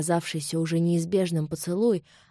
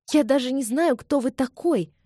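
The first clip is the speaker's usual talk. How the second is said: exclaiming; 6 semitones higher than usual. A narrator's reading. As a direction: burst out at him. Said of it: "воскликнула Элизабет". (восклицая громче и выше)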